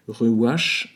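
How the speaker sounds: "Ruach" said as ruach with a throaty final ch; Hebrew word. Shown as a demonstration. Preacher demonstrating "Ruach" to listeners, in Hebrew. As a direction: sound out "Ruach" in self-conscious Hebrew. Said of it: "mon accent hébreu, je crois qu'il est très mauvais".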